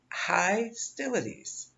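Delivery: put-on slow Southern-accented Hostilities, "HY-stilities". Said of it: "one of your spirits has a southern accent".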